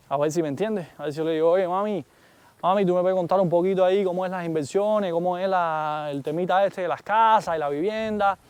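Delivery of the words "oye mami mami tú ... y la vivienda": casual Cuban street Spanish, lightly put on. Vlogger testing the AI in a playful Cuban accent. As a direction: chat up the assistant in easy Cuban slang. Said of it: "como hablan los cubanos normalmente".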